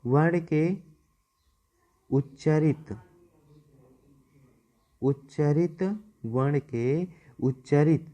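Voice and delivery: spaced out, pausing between words; slow dictation. Shown as a demonstration. Teacher dictating a note for students to write, slow and spaced. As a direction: read it out slowly for the notebook. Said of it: "पहले लिख दें".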